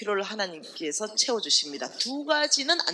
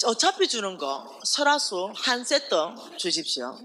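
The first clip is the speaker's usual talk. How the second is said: cheeky slow prayer; slower than usual. Retold or imitated. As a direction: bargain with God half-jokingly. (능청스럽게 천천히 조르는 기도)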